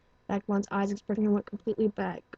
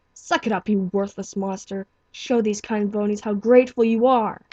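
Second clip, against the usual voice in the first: harsh self-scolding; 6 dB louder than usual. Acted. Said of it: "he scolded himself".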